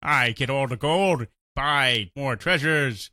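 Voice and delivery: slow caveman-style paladin; dumb paladin voice. Acted. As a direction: play a slow, simple-minded hero. Mocking simple-minded RPG hero.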